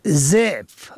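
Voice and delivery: ضعف said "ze'f", drawn out; کسره on first letter. Shown as a demonstration. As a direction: say ضعف with a long-held e after z. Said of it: "به کسر اول". (ضعف با کسرهٔ ض: ضِعف)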